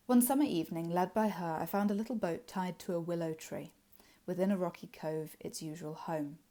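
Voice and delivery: measured recital of the verse lines; poem reading. Acted. Teacher reading a Wordsworth poem to students, measured recital. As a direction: read it like a poem for the class. Reads poem aloud in lesson.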